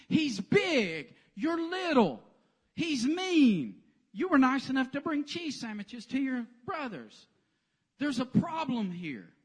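high, loud, emphatic listing of odds; doubting king. Retold or imitated. King Saul telling David he's too small, high and emphatic. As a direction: pile on the reasons he'll lose.

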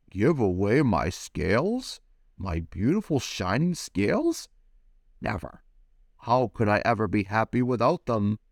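refuse, clinging to his scales; lightly voiced proud fish; indignant refusal.

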